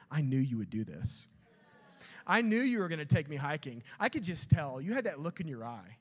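put-on loud, indignant kid's complaint; mock accusation. Daughters accusing dad of tricking them into hiking, mock indignation. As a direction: accuse him loudly, as if catching a trick.

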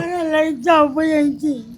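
real tearful plea; crying. Real, not acted. Woman begs the man to take her away, crying. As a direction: plead through tears to be taken away. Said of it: "દી રડો છો?".

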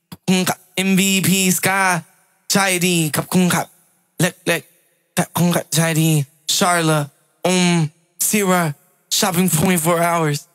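calling names out loud to the stream; loud shout-outs. Real, not acted. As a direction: thank the viewers loudly, one by one.

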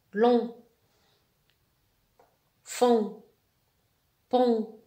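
"Ton", "Mon", "Long" each loud and isolated, vowel through the nose; teacher's drill of nasal "on" syllables; nasal vowel demonstration. Shown as a demonstration. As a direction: model each rounded nasal syllable firmly, one by one. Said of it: "ننطقوها باستعمال الأنف".

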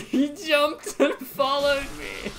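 squealing high through laughter, slow; high-pitched squeal. Real, not acted. Player squealing as enemy jumps after him. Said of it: "Sorry for that high-pitched squeal".

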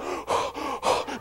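exaggerated gasps for air; deep breaths. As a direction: suck in big, audible breaths. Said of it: "take some deep breaths".

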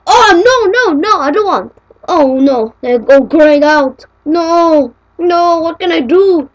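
loud, high pleading no's; panicked. Pretend. User panicking as Vista forces an install, loud and high. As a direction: beg as the buttons go grey.

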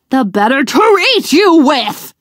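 lightly voiced wolf pouncing; understated wolf snarl; mild snarl. A narrator's reading. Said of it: "the wolf snarled".

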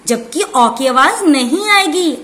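ordinary talk

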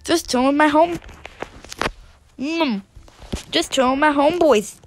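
talking while chewing gum; words round a piece of gum. Real, not acted. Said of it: "Sorry, I'm chewing gum".

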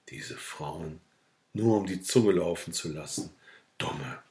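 very soft, disgruntled aside; muttered grumbling. A narrator's reading. Sick man alone grumbling about women, muttering softly. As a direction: sink into a soft mutter, last word lowest.

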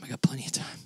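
whispered, no voice at all. Shown as a demonstration. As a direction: say it under your breath as a quiet aside. Repeats the line whispered.

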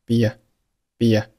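"be" gliding into a through a faint y, bee-ya; drawn-out "be" with a light y glide into a; vowel linking. Shown as a demonstration. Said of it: "带出一个微弱的半元音耶".

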